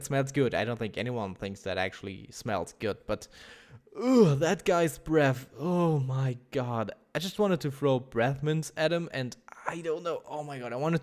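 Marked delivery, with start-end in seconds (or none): 4.0-6.9 slow, louder, revolted ugh; real disgust drawn out slowly; disgusted groan. Real, not acted. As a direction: recoil at the memory of the breath. Disgust recalling drunk's breath.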